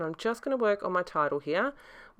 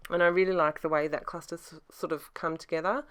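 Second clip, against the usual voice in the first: scratchy voice. Real, not acted. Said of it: "My voice is still a bit off and scratchy".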